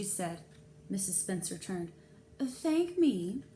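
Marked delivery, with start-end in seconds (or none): 2.4-3.4 higher, louder surprised question. A narrator's reading. Mrs Spencer surprised at being thanked. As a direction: sound caught off guard.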